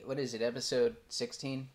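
ordinary talk, nothing marked

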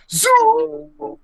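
high, loud wrestling whoop; wrestler yell. Retold or imitated. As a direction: let out a big wrestler yell. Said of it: "he's like".

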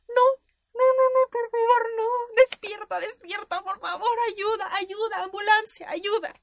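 high, hammed-up cries for help; acted panic. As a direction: wail like a melodrama heroine over a fainted lover. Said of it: "actué y dije".

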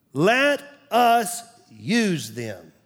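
slow, deliberate echo; slow repeat. Shown as a demonstration. Pastor repeating the phrase for the congregation, slow. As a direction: say it again, slowly, to let it sink in.

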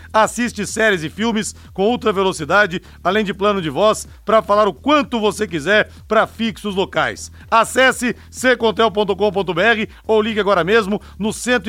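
upbeat radio ad read; infomercial. Acted. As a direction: sell the plan like a commercial. Reads sponsor ad on air.

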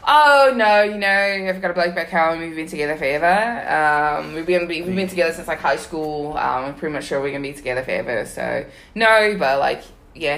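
keeping up a mock Australian accent; playing an Australian turning down a guy, lightly accented; fake Australian accent. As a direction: bluff in a light Aussie accent. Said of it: "And I was like".

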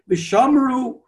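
V'shamru sung out high and strong; yelled out. Shown as a demonstration. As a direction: belt out V'shamru like the shul crowd. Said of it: "when they yell it out".

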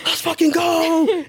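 high, drawn-out mock cheer; retold cheering. Podcaster reliving his friend saying yes, high stretched-out cheer. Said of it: "I was cheering, jumping around".

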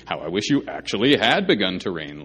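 mock-earnest sarcastic wish; preacher reading Paul's jab with a sarcastic edge. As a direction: lean into the sarcasm on had. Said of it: "like I just said sarcastically".

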